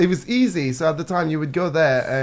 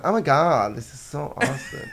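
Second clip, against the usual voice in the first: bad American accent. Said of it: "I can't do accents, by the way".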